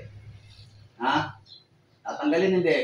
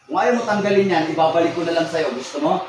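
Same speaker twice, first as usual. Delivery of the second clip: loud, raised warning; stern threat; 4 dB louder than usual. Real, not acted. Healer warning spirit the sickness will return, stern threat. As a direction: threaten firmly, with voice lifted.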